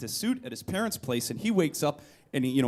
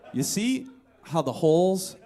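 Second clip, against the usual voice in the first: laughing through it. Retold or imitated. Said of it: "I'm like".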